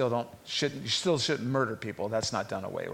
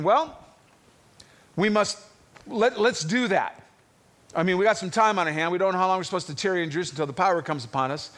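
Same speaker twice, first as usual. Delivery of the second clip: eager Peter; 4 semitones higher, faster than usual. Retold or imitated. Peter urging the apostles to pick a replacement, eager and rushed. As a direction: voice Peter talking himself into it, speeding up.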